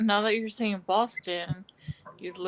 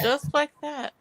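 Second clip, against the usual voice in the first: put-on Boston accent; 7 semitones higher than usual. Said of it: "with the Boston accent".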